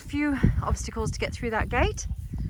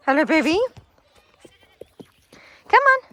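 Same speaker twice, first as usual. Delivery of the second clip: animal-coaxing voice; 7 semitones higher, 7 dB louder than usual. Real, not acted. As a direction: coax a pet along in a raised voice.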